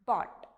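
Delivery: "bought" as BAWT, GH silent; model pronunciation. Shown as a demonstration. Teacher showing how to read it, careful model pronunciation. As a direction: say "bought" with no F sound. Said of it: "You read this as".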